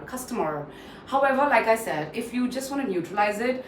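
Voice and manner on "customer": customer ending in a curled American R; rolled R. Shown as a demonstration. Teacher demonstrates rolling the tongue, R sounded. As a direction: curl the tongue to finish customer on R. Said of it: "I'll roll my tongue and say the R".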